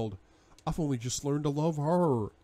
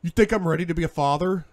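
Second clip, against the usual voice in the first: voice cracking; 6 semitones higher, 7 dB louder, faster than usual. Acted. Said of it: "My voice cracks in the last word".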